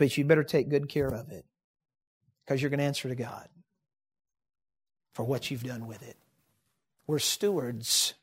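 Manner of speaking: soft, grave and intense; hushed solemn warning. Acted. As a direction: drop low to warn them. Solemn warning at sermon close.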